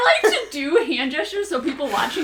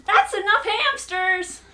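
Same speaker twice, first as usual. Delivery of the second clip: catchphrase voice; 9 semitones higher, 4 dB louder, slower than usual. Shown as a demonstration. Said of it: "the other one is".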